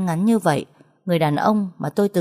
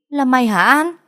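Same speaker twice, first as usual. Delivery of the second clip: higher, louder startled cry; surprised yell; 8 semitones higher, 5 dB louder than usual. A narrator's reading. Friend Vi shocked to see An's short hair, yelling. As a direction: shout it in shock at her friend. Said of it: "con Vi nó lại hét lên".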